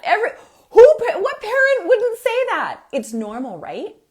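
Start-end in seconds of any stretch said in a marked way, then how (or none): 0.0-2.8 very high and loud burst of disbelief; emphatic exclamation. Real, not acted. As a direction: throw it out loud and high: of course they would. Exclaiming that every parent would.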